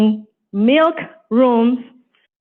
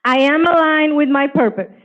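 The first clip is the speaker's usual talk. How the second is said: affirmation lead; 2 semitones higher than usual. Shown as a demonstration. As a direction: lead the group line by line. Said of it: "So repeat with me".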